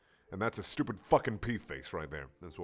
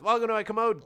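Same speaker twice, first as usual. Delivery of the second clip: mock proud yell; 11 semitones higher, 6 dB louder than usual. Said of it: "yelled with pride".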